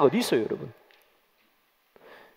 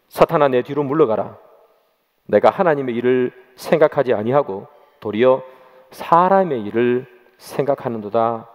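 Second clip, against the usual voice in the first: low, measured reading, slowing at the end; solemn scripture rebuke; 7 semitones lower, 3 dB quieter than usual. A narrator's reading. Jesus rebukes Peter in Mark, solemnly read. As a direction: read the rebuke gravely, drawing out the close. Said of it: "베드로를 꾸짖어 이르시되".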